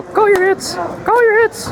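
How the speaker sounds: loud, high call across the field; shouting. Real, not acted. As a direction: shout the reminder to the other team. Calling to opponents.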